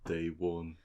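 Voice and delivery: drawn-out Geordie announcement; Geordie announcer. Retold or imitated. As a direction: imitate a Geordie TV voice-over. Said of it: "a famous person who sounds like it".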